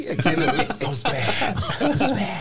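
laughing through the words. Real, not acted. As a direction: crack up mid sentence. Laughing while telling a story.

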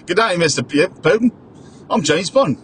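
mock suave Bond introduction, faint English accent; a light imitation of an Australian doing English accent; introducing himself as Bond, mock English accent; Lazenby's English accent. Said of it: "Lazenby trying to do an English accent".

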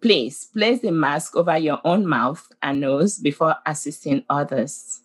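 calm, measured safety announcement; flight attendant. Acted. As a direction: read it like cabin crew over the intercom. We have heard this announcement.

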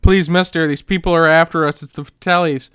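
lightly acted urgent plea; mock pleading. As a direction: plead like a kid being chased, half in fun. Acts out fleeing Chunk's plea for help.

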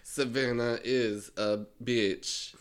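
slow, deliberate diss line; drawn-out pretend diss; mock diss track. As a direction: lay it down slowly, word by word.

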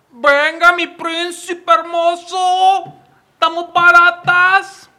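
high, very slow sultry come-on; sex worker impression. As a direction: purr it like luring a client. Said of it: "esa fue la imitación de Ruchi".

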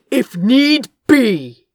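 slow, spat-out threat. A narrator's reading. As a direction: spit the words with contempt. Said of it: "Gabriel spat".

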